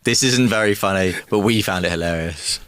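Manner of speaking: low, dramatic trailer narrator; film trailer voice. Acted. Guest mocking the host's story intro as a film trailer. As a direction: sell it like a movie trailer. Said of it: "Imagine the beginning of a film trailer".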